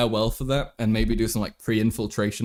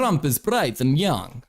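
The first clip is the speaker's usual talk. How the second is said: put-on Russian accent; 2 semitones higher, slower than usual. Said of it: "I'm clearly Russian".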